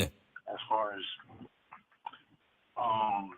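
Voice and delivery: distant and faint, far from the mic; from another room. Real, not acted. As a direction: speak from across the room. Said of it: "You sound like you're in another room".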